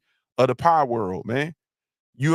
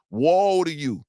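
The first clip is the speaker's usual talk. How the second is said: mock biblical woe; 3 semitones higher, slower than usual. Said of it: "that's what they say in the Bible".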